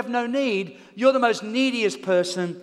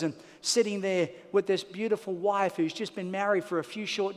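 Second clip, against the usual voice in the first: lower, softer heartfelt sermon voice; intimate preaching; 5 semitones lower, 4 dB quieter than usual. Real, not acted. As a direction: speak close and sincere.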